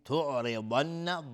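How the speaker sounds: slow تعرضن, thick ض and hummed double n; ghunna and heavy dad. Shown as a demonstration. Teacher showing doubled noon, held nasal hum.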